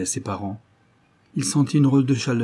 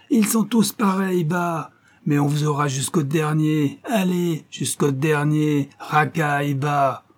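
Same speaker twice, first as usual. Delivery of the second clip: hateful rant; 6 semitones higher, slower than usual. A narrator's reading. Concierge ranting at the arrested couple, high and spiteful. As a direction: rant at them as they're led away.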